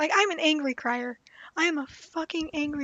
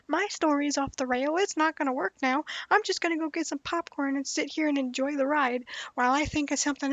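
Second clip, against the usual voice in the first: mock-fed-up rant; imitated exasperation, pushed a bit louder; exasperated game master; 4 dB louder than usual. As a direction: throw up your hands at the players, in jest.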